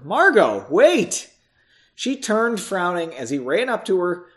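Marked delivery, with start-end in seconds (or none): 0.0-1.3 raised, urgent call. A narrator's reading. Henry calling after Margot as she walks away, urgent shout. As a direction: call after her to stop. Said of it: "he called out to her".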